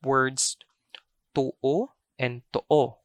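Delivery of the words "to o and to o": slow "to-o and to-o." with lips held in one shape; unchanged mouth shape. Shown as a demonstration. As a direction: say each "to-o" slowly, lips rounded throughout. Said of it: "shape of your mouth doesn't change".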